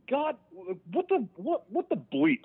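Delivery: high, exasperated outburst, drawn out; pissed off. Retold or imitated. Man in jail railing at God, pissed off. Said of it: "I get pissed off. And I'm like".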